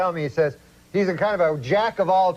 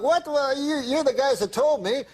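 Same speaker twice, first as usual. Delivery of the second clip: higher, mock indignant protest; 5 semitones higher than usual. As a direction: play Uncle Hector as a man wrongly accused, mildly outraged. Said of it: "like, indignant".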